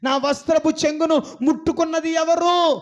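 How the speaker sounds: Jesus asking the crowd out loud. Retold or imitated. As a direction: call out to the crowd. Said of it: "అని గట్టిగా అడిగాడు".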